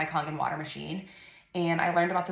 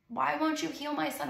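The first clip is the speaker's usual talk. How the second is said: retold sobbing plea; 9 semitones higher than usual. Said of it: "just sobbing".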